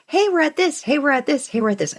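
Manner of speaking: bright, high repeated calls of news; eager announcing. Retold or imitated. Partner recalling her constant excited updates. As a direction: pester with each new milestone. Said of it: "'cause I used to be like".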